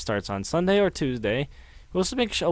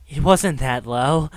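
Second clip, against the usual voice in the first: slow, restrained disbelief; stunned and measured; 4 dB louder, slower than usual. Acted. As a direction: stretch it out, still holding back. Character's first take of disbelief.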